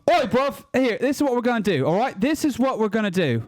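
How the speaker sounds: hammed-up amateur British accent; committed British accent. Shown as a demonstration. Panelist bashing the royal family on a dare, committed British accent. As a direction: rant in a rough mock British accent. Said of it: "commitment to the British accent".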